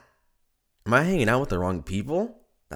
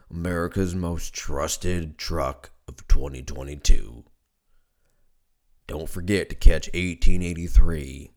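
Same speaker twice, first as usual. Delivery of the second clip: Sam Elliott impression; 3 semitones lower than usual. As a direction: pitch it like a deep-voiced truck commercial. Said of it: "I fucking sound like Sam Elliott".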